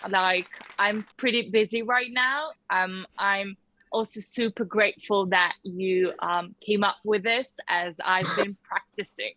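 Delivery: put-on English accent, measured. Shown as a demonstration. Guest answering a tea order, English accent. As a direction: politely stall in an English accent. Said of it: "in your best English accent".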